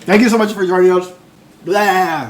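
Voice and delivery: talking around an ice cube; words garbled by ice in the mouth. Real, not acted. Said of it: "Did you put ice in your mouth".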